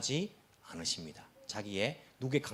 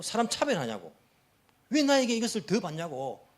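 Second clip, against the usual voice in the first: mock complaint, pitched up at the end; lightly acted indignant protest; indignant arguing; 4 semitones higher than usual. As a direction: act out someone arguing over their rights. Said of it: "막 따지면서".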